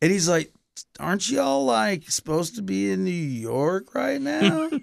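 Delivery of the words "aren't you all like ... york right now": hazy, slow stoned drawl, pitched up, "York" stretched out. Retelling running into Toby at his hotel room, imitating Toby stoned. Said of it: "he might have been partaking in something".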